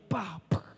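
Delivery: two soft "pa" sounds; quick spoken double hit; imitated blows. Triplet demonstrating the stone attack, imitated blows.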